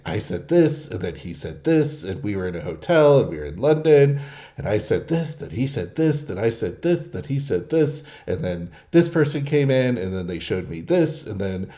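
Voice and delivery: softly rattling off one detail after another; mock rambling storyteller. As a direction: parody someone who recounts every step. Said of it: "It's an S I response where, you know, he's like".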